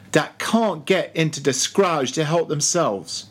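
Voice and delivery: lightly voiced old cook preaching in dialect; old cook Fleece. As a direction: preach to the sharks in a thick dialect.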